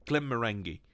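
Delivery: lightly put-on Scottish accent. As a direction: redo the name as if Scottish. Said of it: "Scotland. All right".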